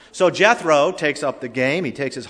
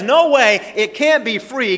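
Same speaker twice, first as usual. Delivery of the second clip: high, loud incredulous protest; mock objection; 10 semitones higher, 5 dB louder than usual. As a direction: imitate a doubter refusing to believe it. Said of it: "So when somebody says".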